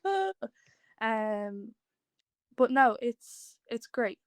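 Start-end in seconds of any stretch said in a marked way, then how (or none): 0.0-0.3 retold wired yelp. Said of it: "I do be so wired".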